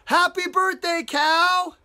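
high, loud birthday cheer; surprise shout. Acted. Storyteller voicing everybody surprising Cow, excited shout. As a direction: call it out like a surprise party.

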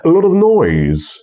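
glue "of" onto "lot", punch "noise"; stressed words, glued weak syllables. Shown as a demonstration. Teacher showing how weak syllables stick on, stress on noise. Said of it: "nieakcentowane sylaby się doklejają dosłownie".

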